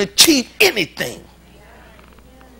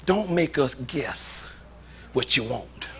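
slow plea; 6 semitones lower, 11 dB quieter, slower than usual. Real, not acted. Repeated plea, slowed and quiet.

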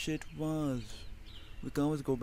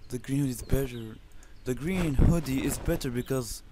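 hoarse, voice giving out; 4 dB louder than usual. Real, not acted. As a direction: voice cracking after coughing. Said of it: "my voice is gone".

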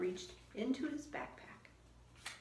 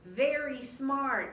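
Jack pleased; 4 semitones higher, 9 dB louder, much slower than usual. Acted. Jack's line.

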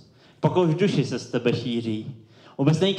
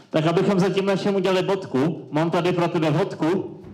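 higher put-on voice, bargaining; pitched-up nobleman making an offer; lightly voiced Count Tolstoy; 4 semitones higher than usual. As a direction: offer a bribe as the captive count.

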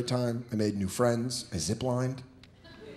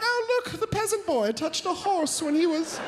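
high, softer posh mockery; snooty rich voice; 13 semitones higher, 4 dB quieter than usual. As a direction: sneer down at the peasant. Mimicking snobby equestrians.

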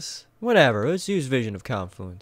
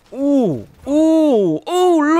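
ooh climbing higher and louder each time; rising excited ooh; 13 semitones higher, 8 dB louder, much slower than usual. Real, not acted. Gamer hyped during a triple kill, rising excited ooh.

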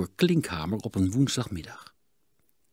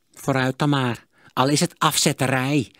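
1 sighing; 5 semitones higher, 5 dB louder than usual. A narrator's reading. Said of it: "zuchtte Sigertsma".

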